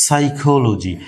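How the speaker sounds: সাইকোলজি begun on s, no p sound; teacher model of সাইকোলজি; silent p. Shown as a demonstration. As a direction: say সাইকোলজি as "saikoloji". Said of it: "পির উচ্চারণটা কিন্তু হচ্ছে না".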